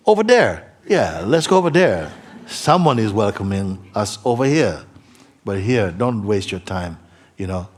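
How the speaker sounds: voice of the mind. Retold or imitated. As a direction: play the mind eagerly luring you off. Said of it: "he's gonna look at you and say".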